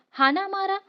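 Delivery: commanding shout in the heat of battle. A narrator's reading. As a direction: yell the order over the fighting. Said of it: "Bajiprabhu ओरडला".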